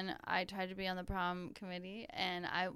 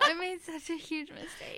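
high laughing talk; 9 semitones higher than usual. Real, not acted. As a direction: speak through laughter. Both laughing hard.

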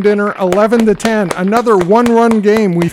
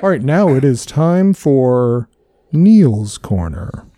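announcer voice; 6 semitones lower, slower than usual. Acted. Announces a show segment.

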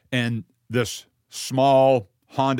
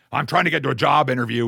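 agitated; 4 dB louder, faster than usual. Retold or imitated. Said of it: "He's, he's really agitated".

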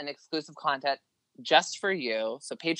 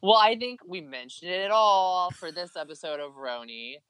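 Jersey accent. Shown as a demonstration. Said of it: "was that a good Jersey accent".

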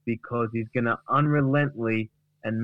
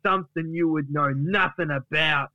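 offended Duck; 2 semitones higher than usual. Acted. Duck rejects Gary's dry ice advice, offended retort. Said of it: "And then Duck says".

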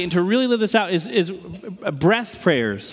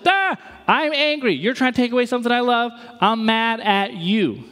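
mock angry outburst; 5 semitones higher than usual. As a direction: act out someone losing their temper. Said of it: "We're just like".

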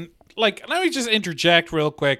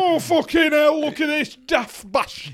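high-pitched comedian impression; put-on voice, pitched well up; Bernard Manning; 8 semitones higher than usual. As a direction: exclaim as the heckling club comic. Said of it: "That's my Bernard Manning impression".

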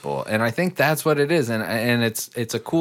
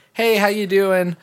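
higher, cheery mock greeting; friendly neighbor greeting; 7 semitones higher, 3 dB louder than usual. Showing how a normal neighbor greets, cheery mock voice. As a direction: play the nice neighbor brightly. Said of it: "here's how to be a normal human being".

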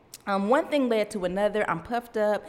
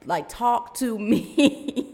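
frustrated; 3 semitones higher, 4 dB louder, much slower than usual. Retold or imitated. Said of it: "a little more frustrated".

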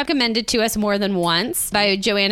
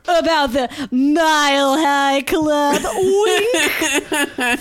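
sly; 6 semitones higher, 4 dB louder, much slower than usual. Pretend. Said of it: "I only have one way of sounding".

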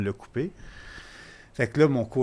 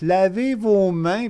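slow, louder, higher stern order; mock guard order; 8 semitones higher, 6 dB louder, much slower than usual. The masked hospital guard orders him to wash his hands, a slow mock command. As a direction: bark the order like the covid guard.

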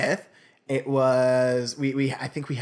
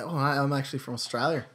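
casual, understated Australian; feigned Australian accent; 3 dB quieter than usual. Retold or imitated. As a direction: lightly put on an Australian accent. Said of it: "I'm feigning this Australian accent".

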